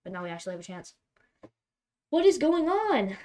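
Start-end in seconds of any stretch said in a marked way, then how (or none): 2.1-3.2 loud, high, slowed outcry of disbelief; exasperated shout. Real, not acted. Gamer yelling at his bad luck, exasperated shout. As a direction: throw the question up in real frustration.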